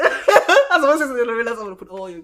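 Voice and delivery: talking loudly through real laughter; laughing. Real, not acted. Nearly spilling a friend's business, laughing hard. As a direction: crack up while getting the words out. Cracks up at own near slip.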